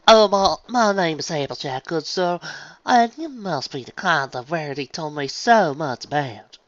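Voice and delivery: high, slow put-on refined voice; posh accent. A narrator's reading. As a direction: fake a socialite's manners. Applejack putting on posh voice.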